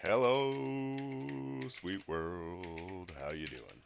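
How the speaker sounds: loud bright greeting to the world; hammed-up stream greeting; big hello. Shown as a demonstration. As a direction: throw the hello out grandly. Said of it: "I'm just gonna say".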